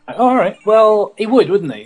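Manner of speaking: a hint of a scheming Satan. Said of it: "Satan's like".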